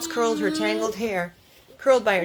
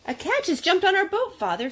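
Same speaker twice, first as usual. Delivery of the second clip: excited exclaiming; 11 semitones higher than usual. Acted. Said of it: "Faith Barrett exclaimed".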